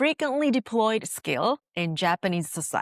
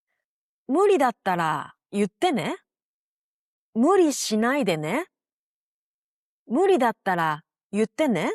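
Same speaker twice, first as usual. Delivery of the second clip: gentle caring phrase; 3 dB louder, faster than usual. Shown as a demonstration. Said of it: "the simplest move is adding this right after your sentence".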